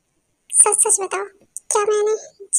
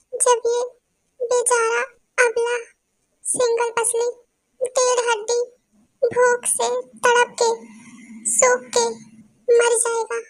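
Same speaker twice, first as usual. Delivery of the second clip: mock starving whine; slower than usual. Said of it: "अपनी नौटंकी बंद करेगा".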